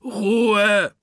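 mock growled hush. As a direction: shut them up at once. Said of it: "knurrte Schlappi".

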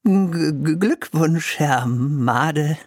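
nervous, stuttered congratulations; stammering. Acted. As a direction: stumble over the first sounds in fear. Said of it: "stammelte Irrwitzer".

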